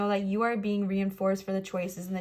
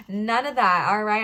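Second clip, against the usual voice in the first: firm no; 6 dB louder than usual. Real, not acted. Firm reassurance to people pleasers.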